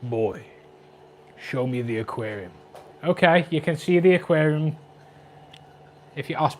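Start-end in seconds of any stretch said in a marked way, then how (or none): 0.0-2.5 much softer, hushed take of the line; hushed, toned-down reread. Shown as a demonstration. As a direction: say it again quietly, dropping the epic act. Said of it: "Why did I read that like".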